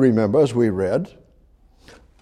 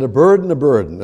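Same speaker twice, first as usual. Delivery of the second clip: mocking; 3 dB louder, faster than usual. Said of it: "made fun of it and mocked it".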